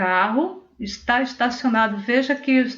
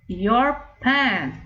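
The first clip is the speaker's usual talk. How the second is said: Your pen, stressing pen with a falling tune; clear model phrase. Shown as a demonstration. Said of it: "your pen is new". (frase modelo clara, ênfase em pen)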